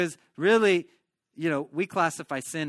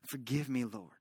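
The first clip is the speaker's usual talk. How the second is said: David's broken prayer; 4 semitones lower, 4 dB quieter than usual. Retold or imitated. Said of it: "David was just before the Lord saying".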